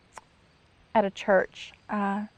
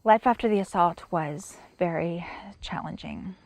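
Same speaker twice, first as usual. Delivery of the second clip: whispered; 2 semitones lower than usual. Real, not acted. Opening a somber chapter.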